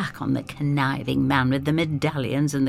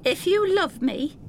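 higher, earnest plea; pleading girl. Acted. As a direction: appeal to his love. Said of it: "Effie says".

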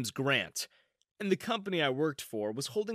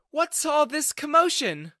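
higher, louder demanding boss; stern boss voice; 13 semitones higher, 6 dB louder than usual. Acted. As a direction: demand it like an annoyed CEO. CEO enters asking.

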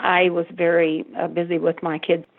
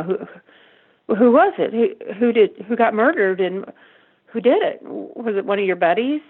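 upset questioning; 4 semitones higher than usual. Retold or imitated. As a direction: fire questions at your son in alarm. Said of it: "immediately upset and questioning him".

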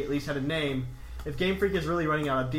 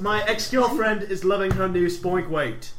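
slower put-on Aussie; Australian accent; 3 semitones higher, 3 dB louder, slower than usual. Reading the listener's postscript, slow mock Australian accent. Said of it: "He's Australian".

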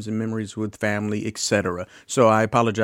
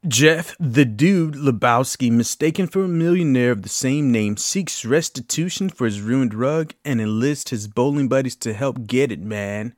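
Jeff Bridges as the Dude; 2 semitones higher than usual. Acted. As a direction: do a laid-back Dude impersonation, easing off toward the end. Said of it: "impersonation of Jeff Bridges doing The Big Lebowski".

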